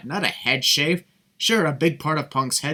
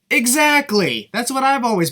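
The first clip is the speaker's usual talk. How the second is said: excited; 9 semitones higher, 6 dB louder than usual. Real, not acted. Emphatic agreement with commentator.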